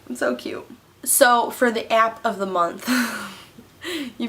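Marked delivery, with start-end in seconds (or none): 0.1-0.7 softer, hushed gush; soft sigh. Real, not acted. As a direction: breathe it out softly, melted. Gushing over cute commercial.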